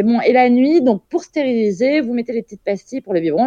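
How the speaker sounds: lightly voiced nurse giving night instructions; mock lecturing nurse. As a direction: explain it like she is talking to a child. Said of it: "Elle me disait".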